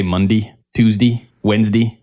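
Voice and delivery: "Monday, Tuesday, Wednesday" with each "-day" reduced to "-dee"; grandparents' day names. Retold or imitated. Mocking how the grandparents say weekdays, "-day" as "-dee". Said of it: "they say Monday".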